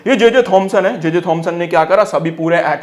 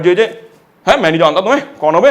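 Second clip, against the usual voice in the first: cheeky call; faster than usual. Retold or imitated. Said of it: "Rutherford इन्हें आवाज लगा रहे".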